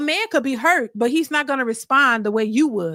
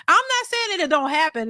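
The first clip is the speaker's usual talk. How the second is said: usual speaking voice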